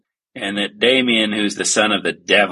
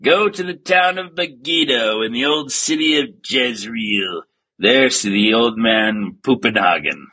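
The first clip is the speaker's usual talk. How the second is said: prophesying priest. Acted. Priest sending Peck to Megiddo, mock solemn proclamation. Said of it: "He says".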